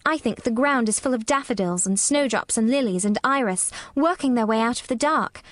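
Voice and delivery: gently slow, low storytelling voice. A narrator's reading. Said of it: "very slowly and in a very low voice".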